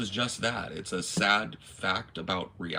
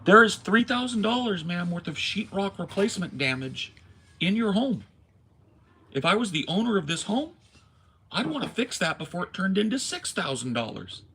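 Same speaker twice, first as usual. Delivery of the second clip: loud; 8 semitones higher, 4 dB louder than usual. Retold or imitated. Angry retelling to landlord.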